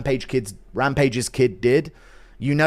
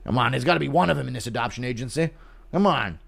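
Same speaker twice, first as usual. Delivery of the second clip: dementia Chandler; 3 semitones lower, faster than usual. Pretend. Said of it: "Impression of dementia Chandler fishing for white kids".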